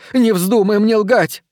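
high, slow shouted warning; breaking into a shout. Acted. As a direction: shout it, voice cracking up. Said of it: "Она сорвалась на крик".

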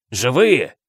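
mock-astonished cry; exclaiming. A narrator's reading. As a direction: cry out in feigned surprise. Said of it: "вскрикнул сэр Патрик". (притворно изумлённый вскрик)

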